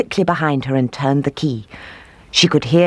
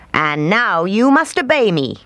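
put-on raised, commanding old witch; 5 semitones higher than usual. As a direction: cast the spell with menace.

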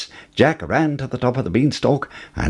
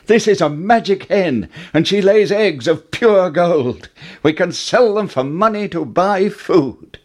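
put-on excited boy; 8 semitones higher than usual. A narrator's reading. Jack excited showing magic hen.

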